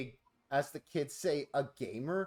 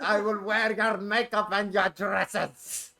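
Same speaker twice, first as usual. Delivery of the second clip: Sam Hyde impression; 4 semitones higher, 5 dB louder, slower than usual. Sam Hyde quote, performed.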